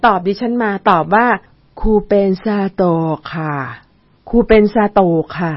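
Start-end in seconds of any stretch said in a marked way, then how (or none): 1.5-5.5 slow, slurred stroke-patient voice; slurred drawn-out speech. Retold or imitated. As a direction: stretch and slur every word. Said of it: "แล้วก็เสียงยืดๆแบบเนี้ย".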